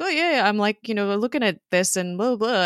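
imitating a flustered cover story, starting high; awkward excuse. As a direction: talk your way out awkwardly, mock-nervous. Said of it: "really awkwardly tries to talk his way out".

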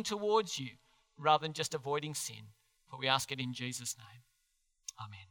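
measured, understated praying voice; prayer. Real, not acted. Preacher praying to the Heavenly Father for the church, prayerfully. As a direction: address God reverently, without preaching force.

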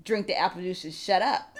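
low, soft, unbothered order; mellow, low-voiced imitation; zen coworker. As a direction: calmly shut a child down. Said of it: "He's very zen".

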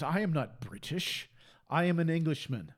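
measured, lightly put-on English accent; imitated English accent. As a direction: mimic an Englishman's firm correction, English accent. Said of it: "he's got this accent".

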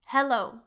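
clear, careful English "Hello." for learners to repeat; model pronunciation. Shown as a demonstration. Teacher models "Hello." for Spanish learners, clear and careful. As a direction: say "Hello." slowly with a crisp h, then pause. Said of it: "Puedes repetir después yo".

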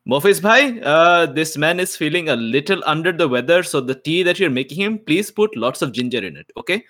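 bright, high courteous aside to the servant; polite request to servant. Acted. Player voices character to servant.

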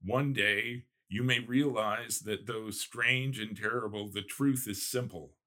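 reading a novel passage aloud, lightly voiced; story reading. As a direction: read the gothic scene to listeners.

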